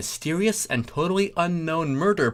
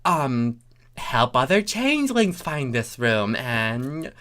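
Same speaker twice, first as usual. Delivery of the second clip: Thorax voice; 2 semitones higher than usual. Acted.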